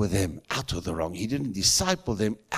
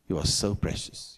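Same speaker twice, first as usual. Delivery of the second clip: whispered. Retold or imitated. Preacher retelling tender words to the mocking soldiers: whispered. Telling mockers they are precious.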